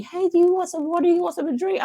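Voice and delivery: imitating the salon lady's sweet offer. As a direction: offer it brightly like a hostess. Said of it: "she was asking me".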